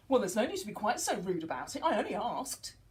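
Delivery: mock offended retort; rebellious child. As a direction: bristle back at the rudeness. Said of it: "rebellious child".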